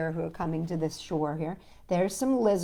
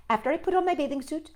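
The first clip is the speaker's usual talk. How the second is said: fast, higher insistent Toad; fussy Toad; 6 semitones higher, faster than usual. Acted. Toad warning Frog not to look. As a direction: hurry the rules out.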